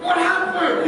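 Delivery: high, startled mock gasp of a question; mock surprise. At the water slide, joking to the crowd, mock-surprised. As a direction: play dumb, as if shocked at yourself. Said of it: "tempted to look at myself and go".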